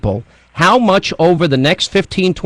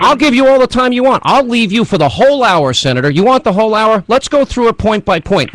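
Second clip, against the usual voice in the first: raised, higher voice pressing the senator; heated radio host daring a guest to answer; heated challenge; 5 semitones higher than usual. Real, not acted.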